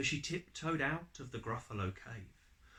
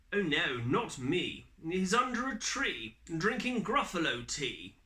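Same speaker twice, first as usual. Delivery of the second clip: higher, lilting fox voice; sly fox; 5 semitones higher, 3 dB louder than usual. Acted. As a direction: sing it out like a crafty fox. Fox answers the child.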